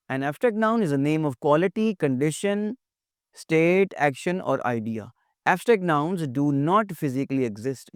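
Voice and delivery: very slow, deliberate dictation; reading a definition. Acted. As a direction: spell the definition out slowly for students. Reads English definition aloud. (परिभाषा बहुत धीरे-धीरे पढ़ना)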